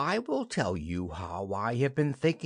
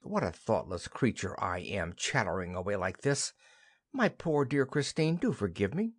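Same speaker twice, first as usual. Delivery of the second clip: serious; 5 semitones lower than usual. Acted. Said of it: "speaks seriously".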